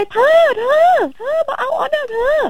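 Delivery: high, slow drawn-out call. Retold or imitated. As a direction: call across the yard to him. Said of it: "แล้วก็ตะโกนไป".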